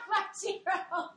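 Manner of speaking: high burst of laughter through the words; laughing. Real, not acted. Laughing at aunt's favorite.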